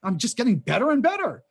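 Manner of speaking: put-on gleeful wonder; mock delight. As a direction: play someone marveling at their luck. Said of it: "who's waking up every day saying".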